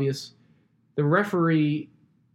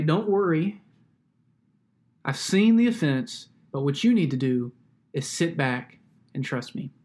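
reassuring God. Retold or imitated. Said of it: "He'll say".

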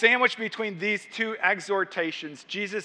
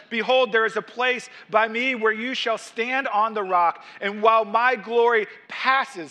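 raised, emphatic reading of God's words; scripture proclamation; 4 semitones higher, 4 dB louder than usual. Acted. Preacher reads God's instructions to Moses, raised proclamation. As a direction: declare it to the congregation.

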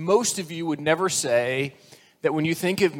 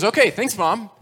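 put-on loud, higher chirpy boy; cheerful little boy; 5 semitones higher, 5 dB louder than usual. Little boy thanking his mother in the kitchen, cheerful. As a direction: chirp it like a kid in a joke.

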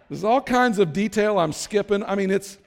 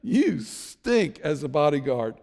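taunting shout. Acted. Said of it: "David shouts out".

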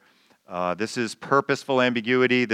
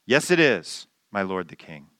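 mild mock yell; 4 semitones lower than usual.

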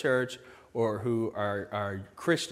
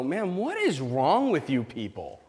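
mildly voiced skeptic; 3 dB louder than usual. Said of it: "and go".

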